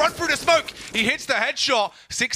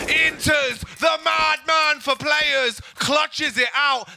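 excited; 3 semitones higher, slower than usual. Real, not acted. Caster calling the clutch.

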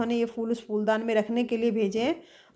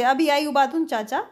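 mildly raised, higher-pitched call; 4 semitones higher, 3 dB louder than usual. Acted. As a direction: call out to Uncle, not a full shout. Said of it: "फिर ज़ोर से". (हल्के ज़ोर से पुकारते हुए)

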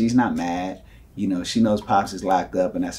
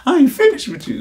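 high, loud retold outburst; mock movie-style threat; 13 semitones higher, 6 dB louder than usual. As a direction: yell it like a kid copying a film. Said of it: "I heard it on a movie".

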